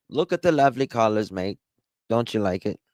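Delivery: fast, cheerful Aussie unfazed by fire; lightly voiced easygoing Australian; relaxed Australian accent. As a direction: admire the blaze like it's a sunset. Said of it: "Australians are the least dramatic people".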